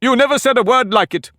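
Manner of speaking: put-on pompous egg lecturing a girl; haughty egg. Humpty gloating.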